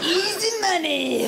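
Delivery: high, drawn-out gleeful crow; mock gloating. Babysitter for a childless couple, mock gloating. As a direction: stretch it out in comic triumph.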